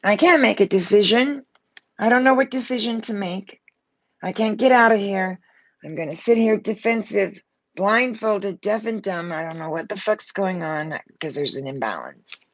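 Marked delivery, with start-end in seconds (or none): 0.0-9.3 louder, anxious first-person voice of the stuck woman; voicing the card figure. Reader voicing the blindfolded woman on the card, fretful. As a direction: speak as the woman who can't decide.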